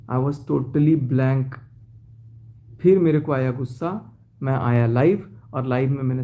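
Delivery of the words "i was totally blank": dazed slow. Real, not acted. Recalling shock of betrayal.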